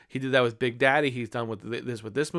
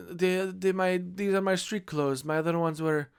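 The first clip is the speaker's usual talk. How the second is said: Nacho Libre quote; 4 semitones higher than usual. Retold or imitated. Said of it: "quote it constantly".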